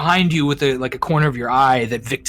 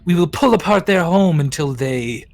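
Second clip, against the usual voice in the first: queen voice; 3 semitones higher than usual. Acted. Queen explains mating ritual.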